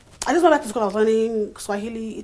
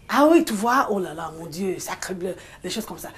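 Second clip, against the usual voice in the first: French exclamations; 4 dB louder than usual. Shown as a demonstration. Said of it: "I exclaim in a different accent".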